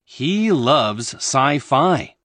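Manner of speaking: slow model for repeating. Shown as a demonstration. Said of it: "repeat each sentence after us".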